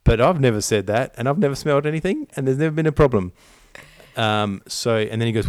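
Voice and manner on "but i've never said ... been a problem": lightly put-on defensive voice, louder; half-mocking his own protest; a hint of a flustered husband; retold own reply. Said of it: "And I'm like".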